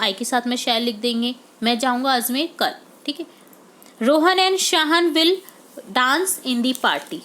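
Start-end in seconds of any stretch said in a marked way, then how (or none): 4.0-7.2 very slow example sentence; slow dictation read. Shown as a demonstration. Teacher dictating the answer sentence to students. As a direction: dictate it word by word.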